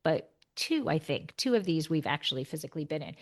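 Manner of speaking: normal talking voice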